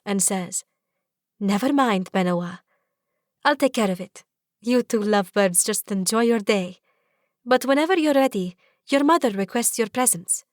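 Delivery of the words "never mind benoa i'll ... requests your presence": maid voice, indulgent. Acted.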